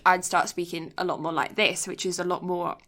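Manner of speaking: casual common English accent; working-class English accent. Shown as a demonstration. Showing how she talked at school, working-class English accent. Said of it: "what you working class people kind of sound like".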